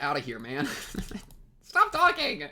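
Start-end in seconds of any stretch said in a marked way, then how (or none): 1.6-2.4 high, loud exasperated shout; stop-talking outburst at the screen; frustrated yell. Real, not acted. Yelling at character on screen.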